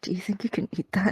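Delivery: whispered mumble under the breath. Voicing a character muttering a question to a companion, muttering. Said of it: "he like mutters".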